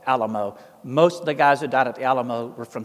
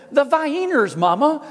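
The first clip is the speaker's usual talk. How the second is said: high, loud retold cry with a laugh; excited shout; 11 semitones higher, 5 dB louder than usual. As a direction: blurt it out to mama, laughing. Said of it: "I shouted out to my mother".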